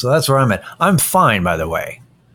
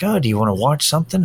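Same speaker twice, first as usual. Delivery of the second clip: chirpy partner; 6 semitones higher, much faster than usual. Retold or imitated. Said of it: "it's like".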